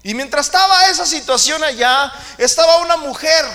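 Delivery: high, loud, driving sermon voice; preaching at full force. Acted. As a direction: hammer home the point to the church. Preaching burst.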